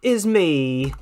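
slow, teasing reveal; dramatic robot host. Acted. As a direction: pause before the twist. Mettaton reveals himself.

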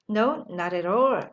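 very slow, drawn-out reply; slow model answer. Shown as a demonstration. Teacher modelling the answer very slowly. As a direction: stretch each word for learners. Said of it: "다시 한번".

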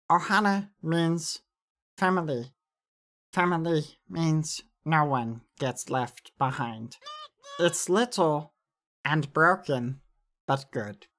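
lightly voiced character with careful pauses. Shown as a demonstration. Showing viewers a voice without a changer, character voice. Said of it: "I'll do some voices".

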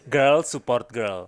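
put-on slow, stretched "girl support girl"; careful pronunciation. Shown as a demonstration. Repeating "girl support girl" after being asked how to say it, slow careful pronunciation. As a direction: sound out "girl support girl" slowly for the listener. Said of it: "Gimana sih ngomongnya?".

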